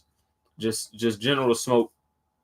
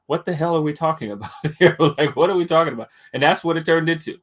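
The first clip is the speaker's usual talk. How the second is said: exasperated; 5 semitones higher, 4 dB louder, faster than usual. Real, not acted. Exasperated about debate.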